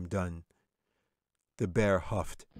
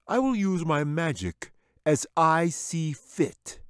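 lightly voiced smooth wizard; a hint of a wizard calming his pet; 9 semitones higher, 6 dB louder, slower than usual. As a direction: soothe the bear like a sly wizard. Wizard dismisses bear.

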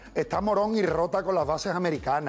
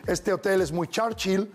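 quoting locals. Retold or imitated. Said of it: "por Winston Churchill".

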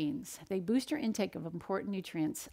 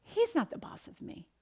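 defiant quote; 12 semitones higher than usual. Retold or imitated. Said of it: "I said".

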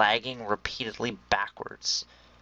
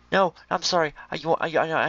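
higher, sorry-sounding pet talk; mock apology; 6 semitones higher than usual. Gamer apologizing to pig, high pet voice.

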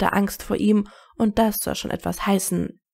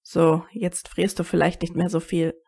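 put-on lower, kindly older comrade; gentle older friend voice; 3 semitones lower than usual. A narrator's reading. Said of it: "und lächelte dann".

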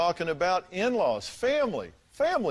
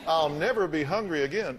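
mock Virginia accent; 3 semitones higher than usual. Host teasing guest about her oath, mock Virginia accent. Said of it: "you said in your best Virginia accent".

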